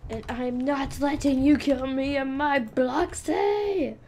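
hammed-up brave kid defying a villain; defiant pretend shout. Kid acting out roleplay confrontation.

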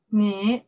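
你 as a slow Mandarin third-tone demo. Shown as a demonstration. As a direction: let 你 dip and rise slowly. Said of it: "the third tone".

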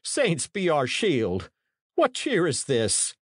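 shocked cry. A narrator's reading. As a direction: call on heaven in alarm. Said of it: "he cried".

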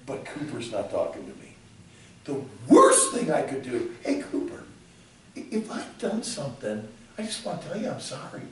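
low, soft mock prayer and apology; a quiet imitation of praying. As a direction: murmur it as a worried prayer. Voicing prayer and weak apology.

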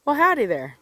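Texan greeting. Shown as a demonstration. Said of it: "you walk up and you say".

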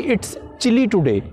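very slow English example; slow model sentence. Shown as a demonstration. Teacher offering another phrase, very slow. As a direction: draw the phrase out gently. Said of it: "ऐसा भी कहा जा सकता है".

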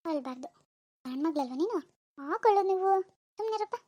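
soft, singsong coaxing; tender baby-talk, softly spoken. Acted. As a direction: gently talk a baby out of crying.

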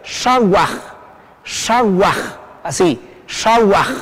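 "shawaj" as one careful word, J at the end; model for repetition. Shown as a demonstration. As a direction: give "shawaj" cleanly with room to repeat. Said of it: "Otra vez".

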